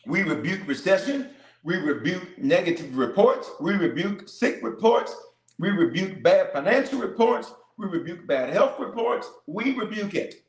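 preacher building declarations; fervent rebuke litany. Acted. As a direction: hammer each rebuke to the crowd.

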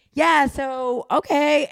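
high, loud upbeat agreeable voice; switched-up voice. Shown as a demonstration. Demonstrating the voice change for friends, high and loud agreeable. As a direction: pitch it up, brightly accommodating. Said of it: "people will say it's code switching".

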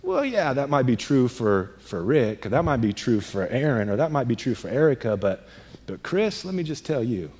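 a hushed, sly whisper of the lying enemy; quiet, coaxing voice of the enemy; voicing the enemy. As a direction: lean in and murmur like the tempter, a touch mocking. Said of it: "the enemy's gonna say".

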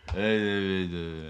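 slow, stalling uh sounds; stammering friend. Retold or imitated. Imitating the confused friend, mock stammer. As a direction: play the friend who is lost for words. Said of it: "he's like".

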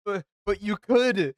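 mock falsetto squeak, slowed; S0 teasing S2 about the girl, in a high mock squeak. Teasing a friend's rejected proposal.

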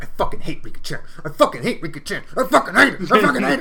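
hammed-up hateful chant, rising as it repeats; mock rant. Retells furious girl shaking ladder.

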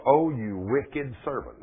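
slow, measured lord's reproach; drawn out, judging; the lord rebukes his servant, slowly. Retold or imitated. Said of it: "said unto him".

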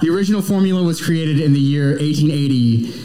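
a lightly sinister corporate read through laughter; evil brand voice. Pretend. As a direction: confess dark secrets like a cheery label. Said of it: "an evil version of those two little sections".

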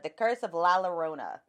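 Llorona said with a flat American accent, no rolled R; La Llorona the plain American way, no Spanish sounds. Shown as a demonstration. Cohost naming the film in American accent. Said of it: "I'm gonna pronounce it in my ob-, outrageous American accent".

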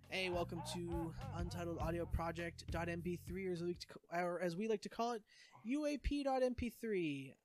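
podcast intro. Shown as a demonstration. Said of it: "we can go".

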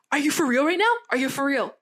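retold angry demand, mildly heated; indignant, pressing mock challenge; mad. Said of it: "he was mad".

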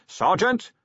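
high, urgent yell; a high warning shout to his sergeant. A narrator's reading. Vimes to his sergeant while diving for the floor, yelled.

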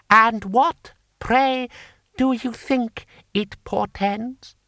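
high, loud, scornful question; sneering. Acted. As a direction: sneer every word out. Lord Hong sneering.

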